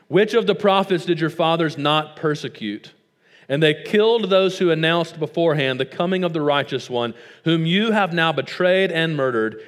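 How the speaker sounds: preacher rebuking a stubborn crowd; Stephen preaching. Acted. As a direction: read Stephen's charge with weight. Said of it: "He says".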